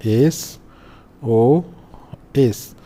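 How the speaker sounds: एसओएस very slow, each letter separate with long pauses; drawn-out pronunciation demo. Shown as a demonstration. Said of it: "इसको जब बोलेंगे तो". (एसओएस, हर अक्षर अलग, खूब खींचकर)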